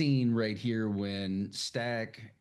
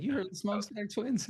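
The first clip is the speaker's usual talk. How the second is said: imitating Smoke; 10 semitones higher than usual. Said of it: "he's like".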